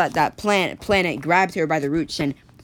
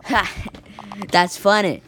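laughing; 3 semitones higher than usual. Acted. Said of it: "she just kept on laughing".

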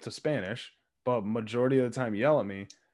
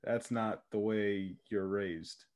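slow, mildly let-down retold scolding; disappointed dad; 3 semitones lower, 5 dB quieter, slower than usual. Retelling dad's disappointment at his child, slow disappointed delivery. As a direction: imitate a quietly disappointed father, slowly. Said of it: "it was more disappointment".

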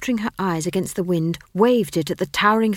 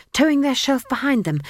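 ordinary delivery

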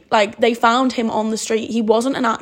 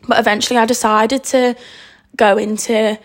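nervous, trembling voice; shaky voice. Real, not acted. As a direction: voice shaking with nerves. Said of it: "why is my voice shaking?".

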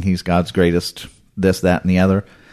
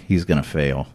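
smug; 3 semitones lower than usual. Retold or imitated. Smug onlookers predicting a rapper will fail, low and dismissive. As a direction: imitate a smug doubter, pitched down. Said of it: "kind of smugly sitting around going".

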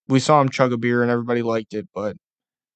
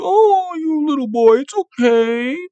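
put-on very high, louder baby-talk coo; mock coddling; 12 semitones higher, 4 dB louder, slower than usual. Fan patting Josh Allen on the head like a dog, high and cooing. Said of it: "pat him on the head like a fucking house dog".

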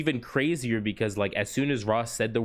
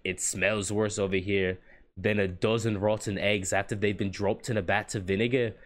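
imitated market-woman Scottish-style accent; NPC lady's accent. Market lady complaining at fish stall, imitated Scottish-style accent. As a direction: mimic a game villager's maybe-Scottish accent. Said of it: "get into that accent that she has".

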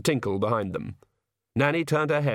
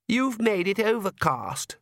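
high, slow sulky daughter; sullen; 10 semitones higher, slower than usual. Acted. Daughter complains to her father about the weather, sullen. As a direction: whine in a drawn-out sulk. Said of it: "said Lacrimosa sullenly".

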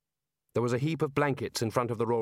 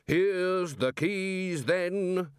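raised voice; 7 semitones higher, much slower than usual. A narrator's reading. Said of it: "raising his voice".

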